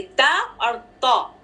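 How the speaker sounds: ता light, तौ heavy; slow articulation demo; ta and taw demo. Shown as a demonstration. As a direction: say ता and तौ slowly from the tooth ridge. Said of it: "जबान कहाँ touch हो रही है".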